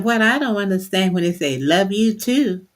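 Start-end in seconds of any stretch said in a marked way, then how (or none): 1.6-2.7 slow, drawn-out "love you too"; sarcastic "love you too". Retold or imitated. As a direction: stretch TOO as if not meaning it.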